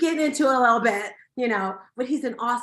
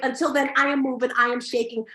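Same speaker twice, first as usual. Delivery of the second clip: usual speaking voice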